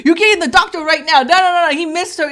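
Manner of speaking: retold angry demand; mad husband. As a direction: imitate a husband getting mad. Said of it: "he kinda got mad".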